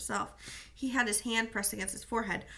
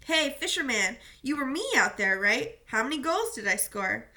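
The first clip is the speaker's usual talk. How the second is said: calling over; 3 semitones higher, 4 dB louder than usual. Acted. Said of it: "He called over to me".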